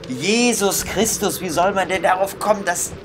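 exasperated outburst. Real, not acted. Gamer venting at an absurd puzzle, exasperated high outburst. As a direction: throw up your hands at the puzzle.

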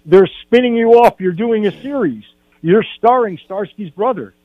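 high-pitched, celebratory retelling; mock excited scream. Cousin tells the actor of his spin-off series, mock excited scream. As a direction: imitate a cousin bursting with news. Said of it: "He's screaming, he's popping champagne".

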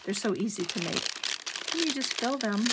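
talking over loud paper crunching. Real, not acted. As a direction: speak while crinkling paper. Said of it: "sorry for all the crunching".

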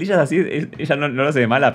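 sarcastic, sing-song parroting of the excuse; mock the lame excuse by parroting it; scornful echo of "ella es así"; mocking repeat. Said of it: "Ay, el, el".

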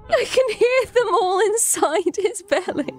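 high, laughing and crying at once; tearful laughing. Real, not acted. Gamer hears grubs inside the collector's belly, tearful laughing. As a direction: squeeze the words out high through laughter. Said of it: "I'm tearing up 'cause it's so funny".

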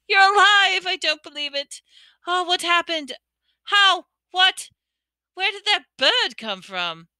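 high, loud, breathless questions; overjoyed disbelief. Acted. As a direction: tumble out the questions in joy. Ron stunned by Ginny's return.

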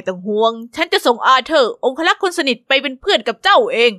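a gentle royal welcome, a touch regal; lightly voiced stately king; King Edward. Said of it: "ข้า".

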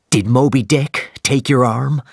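mildly excited question; excitedly. Acted. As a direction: lean in with sudden hope. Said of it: "Captain Ahab asked excitedly".

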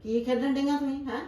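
scolding grandma. Acted. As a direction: demand to know what they're up to. Grandma scolds playing girls.

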